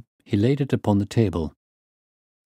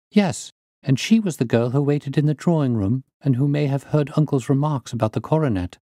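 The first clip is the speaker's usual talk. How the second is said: higher, earnest witness; lightly voiced niece; 6 semitones higher than usual. Niece telling the detective about the maid, lightly voiced, higher. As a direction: lightly play the niece explaining.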